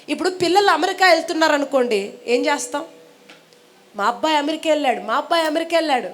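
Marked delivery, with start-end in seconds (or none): 3.9-6.1 quick, repeated parental brag; acted happy boast, briskly paced; imitating proud boasting. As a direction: rattle it off like a parent spreading good news. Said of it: "చెప్పుకొని తిరుగుతాం హ్యాపీగా".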